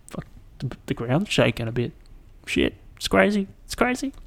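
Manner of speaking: reliving the shaking, half-panicked; mock panicked muttering. Reliving panic as ground shakes.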